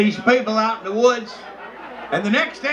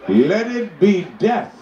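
chief's verdict; 4 dB louder, slower than usual. Acted. Chief voiced in a joke.

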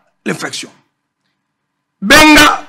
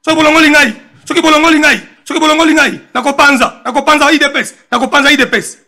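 threatening; 5 semitones higher, faster than usual. Retold or imitated. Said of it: "Mbeli oyo azo menacé".

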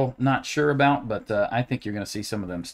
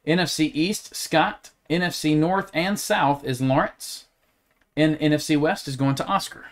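super animated voice; 2 semitones higher than usual. Acted. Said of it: "I'm trying to give everyone a show".

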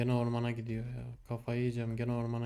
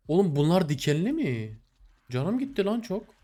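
pained yelp; 5 semitones higher, 4 dB louder than usual. Real, not acted. Hurt by thorns in game.

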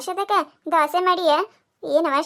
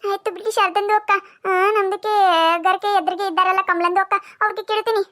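put-on Dakhni-accented Kannada. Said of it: "ಅದ್ರ ಭಾಷೆ ನಮಗ್ ಅರ್ಥ ಆಗುದಿಲ್ಲ".

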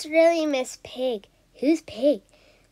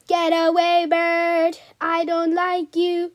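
cross shooing; 3 semitones higher, 5 dB louder than usual. Acted. Shooing the bird off.

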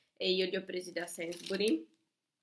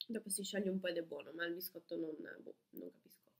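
eating between words; talking while chewing; 3 dB quieter than usual. Real, not acted. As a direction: mouth partly full. Seen 2: Both hold bitten crepe pieces; speaker talks between bites, chewing.

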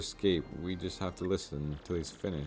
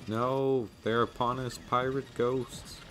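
higher, frantic crew voices; hammed-up panic; 6 semitones higher than usual. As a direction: scream like ghosts are boarding.

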